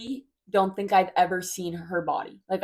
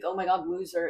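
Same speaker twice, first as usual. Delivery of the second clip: mock sugary taunt. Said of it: "it wasn't like".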